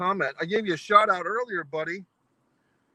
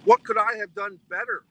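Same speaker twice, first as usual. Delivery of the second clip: raised, higher and louder in frustration; exasperated outburst; 6 semitones higher, 6 dB louder than usual. Retold or imitated. Ranting vlogger retells his pancake panic, louder exasperated cry. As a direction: blurt it like a man cheated of breakfast. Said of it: "It's really what I'm thinking".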